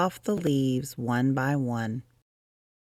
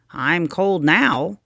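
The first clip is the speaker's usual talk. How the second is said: yawning; 8 semitones higher, 7 dB louder than usual. Acted. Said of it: "he yawned".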